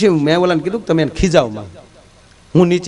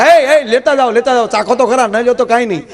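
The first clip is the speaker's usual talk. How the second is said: higher, eager hawker calling "ન લ્યો તો કાંઈ નહીં"; apple vendor call; 4 semitones higher than usual. Retold or imitated. Apple seller hailing passersby, higher eager hawker call. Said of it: "સફરજનની ચીર કરીને દેશે કે".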